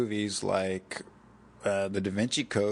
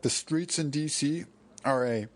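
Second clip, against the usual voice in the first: higher, mock upper-class British voice; upper-class British accent; 4 semitones higher than usual. YouTube guy explaining DC streets, mock British accent. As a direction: imitate an intelligent British theorist. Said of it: "really intelligent, upper class, uh, British".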